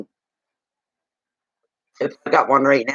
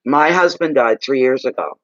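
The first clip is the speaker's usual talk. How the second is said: talking with mouth full. Real, not acted. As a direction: speak around a mouthful of food. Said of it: "Rude to talk with my mouth full of food".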